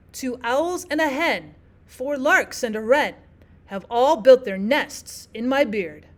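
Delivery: limerick beat landing hard on man, beard, feared, hen, wren; two light syllables then a strong one: and a WREN, in my BEARD; anapestic reading. Shown as a demonstration. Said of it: "two unstressed syllables followed by a stressed".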